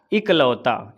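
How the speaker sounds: इकलौता mit kurzem i am Anfang, deutlich; इकलौता, nicht एकलौता, mit i-Anlaut; correct spelling said. Shown as a demonstration. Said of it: "एकलौता नहीं होता है".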